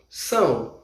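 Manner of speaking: soft modelled "são". Shown as a demonstration. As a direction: say "são" low with nasal sãw. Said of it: "Répétez comigo".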